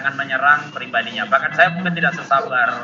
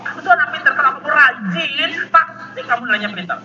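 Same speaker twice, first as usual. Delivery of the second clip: retold shout; 9 semitones higher than usual. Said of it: "Jadi saya teriak". (teriakan orang tua yang memuji anak)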